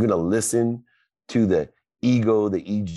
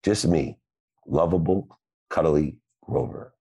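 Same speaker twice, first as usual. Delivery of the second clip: gentle contented Grover; happy Grover. Retold or imitated. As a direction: purr it like a cuddly monster. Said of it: "he says".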